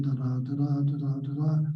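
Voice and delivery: steady da-DA beat on "da da da da"; even alternating weak-strong "da da"; iambic rhythm. Shown as a demonstration. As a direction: tap out "da da da da" as iambic pentameter. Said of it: "Rhythm is iambic pentameter".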